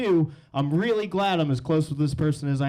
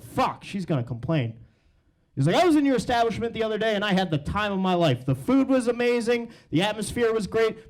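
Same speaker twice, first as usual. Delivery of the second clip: lightly voiced chatty caller, a touch higher; voicemail caller; 4 semitones higher than usual. Customer Shelly Rhodes rambling on the bar's voicemail, lightly voiced. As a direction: ramble like an oddly specific voicemail. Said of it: "first unheard message".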